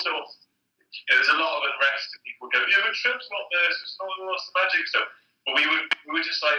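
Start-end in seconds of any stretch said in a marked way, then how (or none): 2.7-4.9 sceptical colleagues. Retold or imitated.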